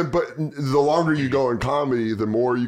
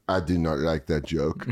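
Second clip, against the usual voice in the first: stern French crowd; 8 semitones lower, 3 dB quieter than usual. Retold or imitated. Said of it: "they go, like".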